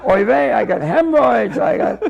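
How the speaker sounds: put-on kvetch, whining for sympathy. Asking the school man for help, mock kvetching. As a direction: play up your aches in a mild kvetch. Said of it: "went into my kvetch".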